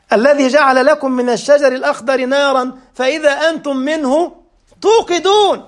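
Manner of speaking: melodic tajweed chant; chanted Quran verse in a sermon; Quran recitation. Acted. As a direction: recite the verse with measured cantillation.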